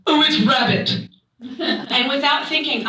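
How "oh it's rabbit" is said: Charlotte. Acted. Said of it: "And she goes".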